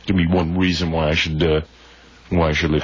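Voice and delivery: nasal voice with pinched nose; pinching nose. Retold or imitated. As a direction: talk through a pinched nose. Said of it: "the clothespin on my nose".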